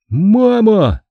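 startled cry for mother; frightened gasp. A narrator's reading. Boy recognizes the coin, mildly frightened call to mother. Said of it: "испуганно ахнул я".

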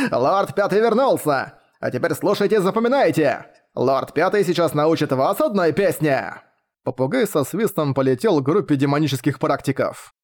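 strut like a smug parrot lord; boastful parrot. Acted. Parrot Lord Fifth addresses cultivators.

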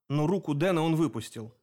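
ordinary delivery

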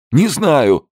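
very high, loud shrieking cry; the terrified businessman shrieks; squealing denial. A narrator's reading. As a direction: squeal it out in terror. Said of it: "заверещал Зельдин".

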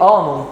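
آنون with a broad back "aa", "AH-non"; backed first vowel in آنون; strange-sounding vowel. Shown as a demonstration. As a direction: say آنون with a heavy open A. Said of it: "بتطلع لهجة غريبة".

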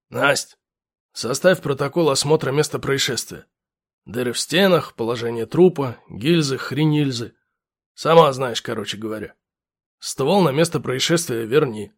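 low, gruff officer voice; gruff lieutenant barking orders. Acted.

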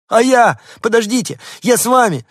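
very high, loud yapping plea; little dog begging to be taken along; pleading little dog. A narrator's reading. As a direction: call after them desperately.

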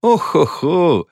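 slow, high ho-ho-ho laugh; mock laugh. A narrator's reading. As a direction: laugh it out teasingly. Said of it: "Женщина рассмеялась". (медленный высокий смешок)

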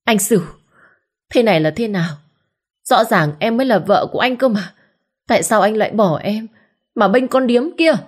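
high, rising hysterical accusation; frantic cry. Acted. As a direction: wail at him, rising to the end. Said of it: "gào lên điên loạn". (gào lên điên loạn với chồng)

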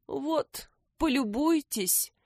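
high mournful lament. A narrator's reading. Hedgehog laments, showing detectives his ruined home. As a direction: wail over the ruins. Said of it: "запричитал Лукум".

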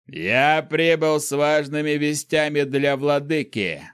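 rough, slow, hoarse rasp; lightly hoarse, worn-out messenger. Acted. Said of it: "хрипло произнёс он".

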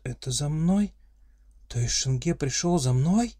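disbelieving. Acted. Heroine's disbelieving question.

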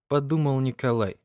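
ordinary delivery, nothing marked

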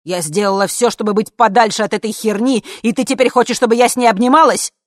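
loud indignant yell. Acted. Mother yelling at her daughter, indignant yell. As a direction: bark the question at her in disbelief. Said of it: "заорала мама".

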